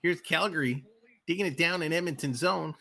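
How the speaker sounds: quick, lively live game call; rink-side commentator rolling through the play; hockey play-by-play. Acted. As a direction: call the action as it happens.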